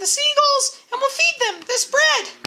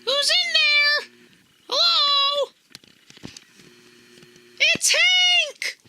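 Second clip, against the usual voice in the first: excited reveal; 3 semitones higher, much slower than usual. Acted. Magic reveal of puppet.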